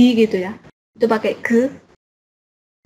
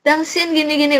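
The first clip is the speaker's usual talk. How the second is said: raised pitch, like a spouse mid-argument; a mild mock jab at a spouse; light imitation of a bickering husband or wife; mock quarrel; 6 semitones higher than usual. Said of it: "suami istri ... bertengkar".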